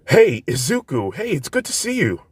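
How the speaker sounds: put-on friendly girl greeting her rescuer; cheerful Uraraka. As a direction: call out happily to a friend.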